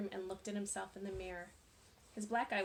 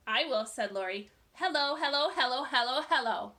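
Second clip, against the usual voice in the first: taunting; 3 semitones higher, 9 dB louder than usual. A narrator's reading. Lori taunting Jeff.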